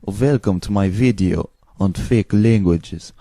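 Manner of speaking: lightly put-on Eastern European accent. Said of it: "I take Eastern European accent".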